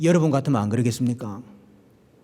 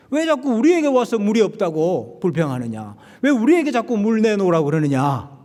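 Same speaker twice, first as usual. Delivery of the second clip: higher, louder indignant protest; exasperated Moses; 6 semitones higher, 3 dB louder than usual. Retold or imitated. Moses retorting to complaining Israelites, higher and louder. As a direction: throw the complaint back at them. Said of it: "그런 말로도 읽을 수 있겠죠".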